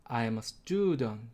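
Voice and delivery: student stressed on stud, the rest unstressed. Shown as a demonstration. Teacher shows English stress to learners, on student. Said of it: "얘를 발음해보면".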